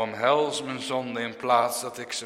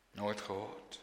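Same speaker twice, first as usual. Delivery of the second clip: "Nooit gehoord?" asked lower and far softer; hushed echo; 4 semitones lower, 15 dB quieter than usual. Shown as a demonstration. Preacher echoing his question, hushed. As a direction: let "Nooit gehoord?" fall to a hush.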